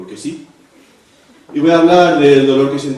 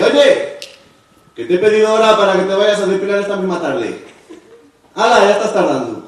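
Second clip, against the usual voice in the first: sister; 5 semitones higher than usual. Retold or imitated. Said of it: "Llega tu hermana y te dice".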